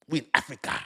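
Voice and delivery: playful put-on voice on "Africa"; "Africa" in a jokey character voice. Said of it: "why I made that voice".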